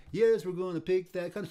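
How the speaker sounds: the worker's reply in call and response; field response. Retold or imitated. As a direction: call back the answer across the field. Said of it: "the other guy would say".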